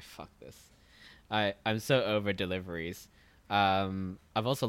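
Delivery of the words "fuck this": whispered "Fuck this". Retold or imitated. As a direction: breathe it out, fed up. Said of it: "And I'm like".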